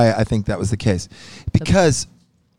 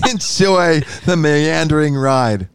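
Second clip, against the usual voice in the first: mock announcer; 5 semitones higher, slower than usual. Playful sign-off.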